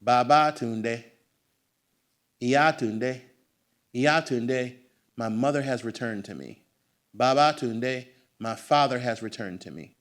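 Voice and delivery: Baba Tunde said slowly, bɑbɑ tũndeɪ; Yoruba greeting. Retold or imitated. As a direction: call out Iya Tunde with a ceremonial lilt. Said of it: "when I went to Nigeria".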